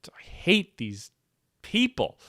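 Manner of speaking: slow whispered confession rising to a squeak; mock whisper. Comic imitating the woman confiding her hatred, whispered. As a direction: hush it, then pop the last word up high. Voicing woman on phone call.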